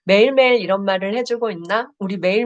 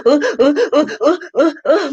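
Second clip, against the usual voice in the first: high, loud mock sobs of a crying boy; sobbing boy, hammed up a bit; imitated sobbing; 6 semitones higher, 3 dB louder than usual. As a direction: imitate the boy's gulping sobs. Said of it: "막 이러고 울었다는 거예요".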